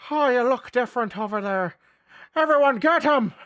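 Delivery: high, loud caricature of a Catholic; mock Catholic zealot. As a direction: rile up the mob as a hammed-up Catholic. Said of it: "that's my Catholic impression".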